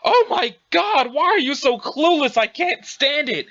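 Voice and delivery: high, slow, fed-up complaint; exasperated outburst. Acted. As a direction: lean on each word in exasperation. Acted quarrel, fed-up outburst.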